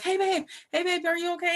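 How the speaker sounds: high, worried check-in; imitated concerned husband. Husband checking on his waking wife, high concerned voice.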